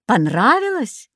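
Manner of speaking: hero's questioning voice; light heroic asking tone; Odysseus asking. A narrator's reading. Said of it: "громкий голос Одиссея".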